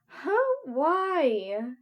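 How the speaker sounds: high, loud, drawn-out whine; whining. A narrator's reading. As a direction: whine it in high-pitched protest. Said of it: "you whined".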